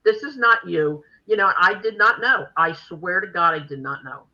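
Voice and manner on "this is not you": incredulous protest. Retold or imitated. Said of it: "I said".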